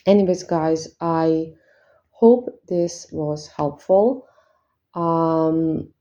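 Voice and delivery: speaking with a slight lisp; talking with retainers in. Real, not acted. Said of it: "I'm sorry about the lisp".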